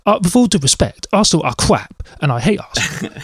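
mock pundit bluntness, only lightly put on; Simon Jordan impression. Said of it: "Bob Mortimer does a very good Simon Jordan impression".

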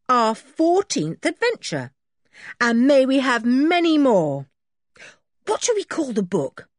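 put-on high, eager boy explaining; Dick's boyish voice. Boy telling the sergeant the men are locked up, high and eager. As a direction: rattle off the news like a proud schoolboy.

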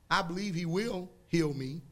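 unsure belief, rising at the end; a half-hearted hope; hesitant believer. Shown as a demonstration. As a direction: say it like a maybe. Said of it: "Y'all don't hear that?".

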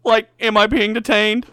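high, slow laughing Shaggy voice; Shaggy impression. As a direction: whine it like a goofy Shaggy. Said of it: "Shaggy was like".

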